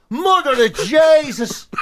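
a hammed-up shocked whisper; mock horrified whisper. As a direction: whisper it like a scandal. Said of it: "everyone goes".

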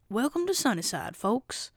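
lightly voiced toy bear welcome, swooping tune; Lotso. Host quoting Lotso's greeting to newcomers, swooping bear voice. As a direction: greet the folks with a swooping character lilt. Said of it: "is because he said, he says".

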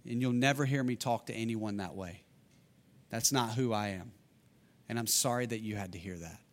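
put-on kneel down and soothe a frightened child; tender reassurance. Coach comforting his scared six-year-old daughter after the cursing, softly.

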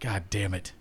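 soft, low, resigned; understated retold exasperation; deflated curse. Player recalling the group's reaction, deflated.

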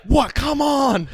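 high, loud mock whine of protest; indignant protest. Retold protest to the stripper.

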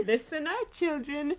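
evil Santa. Pretend. Evil Santa addressing children.

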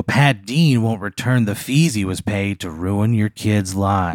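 slow, measured smear-ad read; attack-ad announcer. Acted. Attack ad accusing the model over fees, announcer voice. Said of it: "like, an attack ad".

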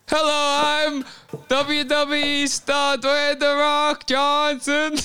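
high, slow, uncanny creature voice; Skinwalker voice. Shown as a demonstration. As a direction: animal trying to sound human. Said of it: "this was worth the money".

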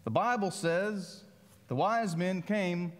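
light East Texas drawl on it; a hint of a heavy East Texas accent. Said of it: "in his heavy East Texas accent said".

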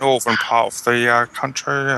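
pedantic nerd voice, lightly done; neckbeard voice. Pretend. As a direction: correct them like a smug know-it-all. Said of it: "To put my neckbeard voice on".

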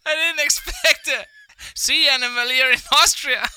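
hammed-up wildlife presenter; Aussie presenter voice. Voicing Bobby Irwin.

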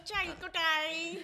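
slow, drawn-out caricature of a housemate; Jade Goody impression. Doing a reality contestant for his mates, mock Jade Goody. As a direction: stretch the name out in a put-on voice. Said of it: "Good impression there".

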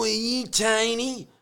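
high, slow put-on voice of a shady dealer; drug dealer voice. Mate telling a breakdown story, putting on a high, slow dealer voice. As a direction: pitch it way up and drag it out like a dodgy street guy. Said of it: "that kind of voice like this".

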